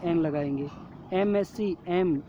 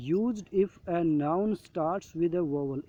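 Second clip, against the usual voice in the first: slow reading aloud; much slower than usual. Shown as a demonstration. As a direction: read the rule very slowly, word by word. Reading worksheet rule. (धीरे-धीरे पढ़कर सुनाना)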